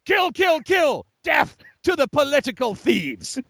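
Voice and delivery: battle yell; war cry. Acted. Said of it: "the only way a man cries is with a war cry".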